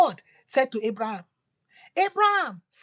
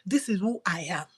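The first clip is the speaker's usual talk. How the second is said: whisper; 4 semitones lower, 3 dB quieter than usual. Acted. God's words whispered in sermon.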